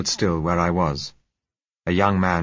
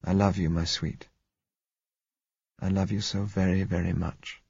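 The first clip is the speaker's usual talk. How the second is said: gentle declaration, fading softer; soft, tender; 4 dB quieter than usual. A narrator's reading. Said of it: "he said softly".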